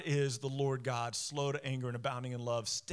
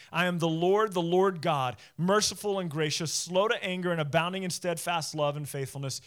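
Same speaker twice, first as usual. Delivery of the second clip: louder, ringing scripture declaration; emphatic recitation; 5 dB louder than usual. Shown as a demonstration. Preacher repeats God's words to the congregation, emphatic recitation. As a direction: proclaim God's name with force, starting loud. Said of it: "Listen to it again".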